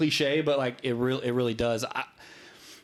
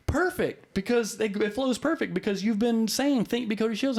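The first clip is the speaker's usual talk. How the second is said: much higher, approving wife's voice; husband imitating his wife's delighted approval, higher; 9 semitones higher than usual. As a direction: play the wife, delighted it fits. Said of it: "She goes".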